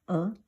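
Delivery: "a" as a pure vowel with no onset; silent first ieung. Shown as a demonstration. Teacher recapping the first position has no sound, silent onset. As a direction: open straight on the vowel of "a", no consonant. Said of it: "first, no sound".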